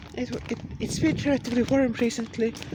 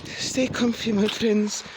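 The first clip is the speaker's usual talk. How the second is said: preachy rant. Acted. Rant sign-off.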